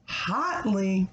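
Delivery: hotly repeated thoughtfully after hmm; hotly, musing and clear; repeating the word. Shown as a demonstration. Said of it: "That means to be excited".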